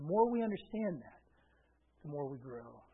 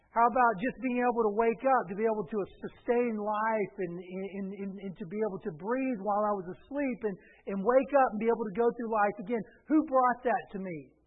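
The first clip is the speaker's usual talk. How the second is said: loud, rapid-fire preacher questioning; forceful preaching; 4 semitones higher, 7 dB louder than usual. Real, not acted. Preacher to congregation on who gives life, forceful preaching. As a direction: press the point on the congregation.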